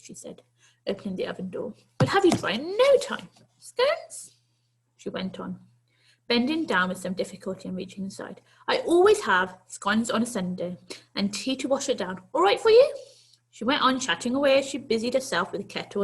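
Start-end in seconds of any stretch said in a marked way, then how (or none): 2.0-12.9 put-on a brisk granny inviting the boy in; kindly old lady. Old lady to the runaway boy, kindly coaxing.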